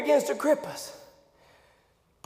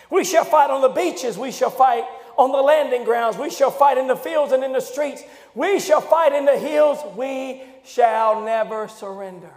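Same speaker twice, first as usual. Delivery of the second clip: Churchill quote. Retold or imitated. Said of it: "Winston Churchill would say it like this".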